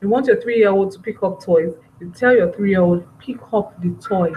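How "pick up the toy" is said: quiet, even, close-range command; gentle parent asking a toddler; calm instruction. Shown as a demonstration. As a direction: tell the child calmly, no shouting. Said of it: "No shouting, calm".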